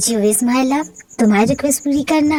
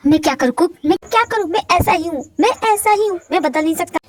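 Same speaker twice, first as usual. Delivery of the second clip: desperate; 5 semitones higher than usual. Acted. Husband breaking down, pleading.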